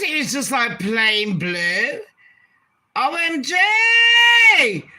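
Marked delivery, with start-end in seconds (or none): 3.0-4.8 long, slow, high and loud O M G; stunned shriek. Real, not acted. Stunned, reacting to a plain blue outfit. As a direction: draw it out in disbelief.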